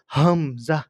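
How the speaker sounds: হামজা with a clear rise at the end; Arabic hamza. Shown as a demonstration. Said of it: "এইভাবে কি করতে হবে? উচ্চারণ করতে হবে".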